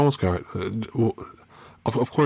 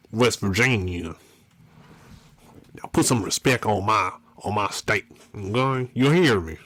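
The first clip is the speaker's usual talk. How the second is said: put-on country accent. Declaring to viewers he is now country, country accent. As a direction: play the mock-indignant country convert, accent on. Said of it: "with my country accent".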